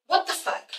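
whispered, stunned reaction; mock-stunned whisper; hushed disbelief. Acts woman's stunned reaction.

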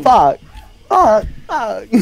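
loud repeated curses; angry shouting. Real, not acted. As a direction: yell it out in frustration. Dies in game, swears.

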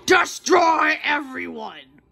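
slow booming villain order; villain command. Acted. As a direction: bellow it like a boss. Voicing the giant hand's order.

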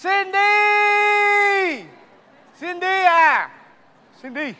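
high, loud call across the room. Acted. Husband calling out for his wife Cindy, loud call. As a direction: call her name desperately.

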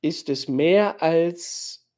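slow, question left hanging; hesitant, suspended unfinished question; trailing into pause. A narrator's reading. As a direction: stretch it out, then stop. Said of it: "sie macht eine Pause".

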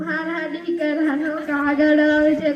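mildly wailing, sing-song acted lament; tearful lament. Old mother explaining her tears to the man asking, tearful lament. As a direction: lament it like a staged weeper. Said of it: "માડી, તમે કેમ રડો છો?".

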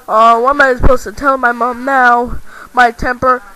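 suddenly realizing the trouble; panicked. Real, not acted. Just broke the camera in anger.

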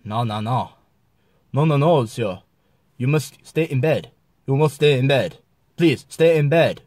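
mock Mexican accent, insistent; lightly faked Mexican accent. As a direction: plead in a put-on Mexican accent. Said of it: "Down to Mexico".

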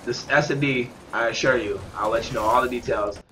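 talking with a stuffed-up nose; blocked nose, runny nose voice; stuffy nose. Real, not acted. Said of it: "sorry if I sound like I'm stuffed up".

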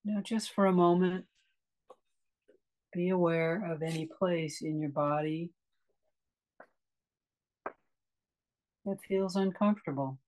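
calm meditation guide with long pauses; unhurried, spacious guiding into relaxation; guided meditation. Acted. Meditation teacher leading a class into a restful breath, calm guiding voice.

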